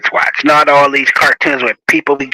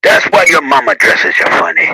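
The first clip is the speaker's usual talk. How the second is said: a hint of a schoolyard bully taunting; mock mean teasing; 4 semitones lower than usual. Shown as a demonstration. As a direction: tease like a playground jerk, half in jest. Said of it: "Bad teasing is".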